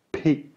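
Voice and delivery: P sound demo; aspirated P. Shown as a demonstration. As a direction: pop the "P" crisply. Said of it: "P is pronounced P".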